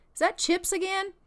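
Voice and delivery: squeaky high indignant whine; high baby voice. Pretend. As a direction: complain in a tiny high voice. Baby complaining about dinner.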